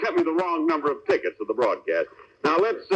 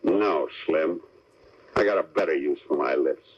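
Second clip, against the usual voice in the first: mock tough hero; 10 semitones lower than usual. The speaker plays Steve, lower voice.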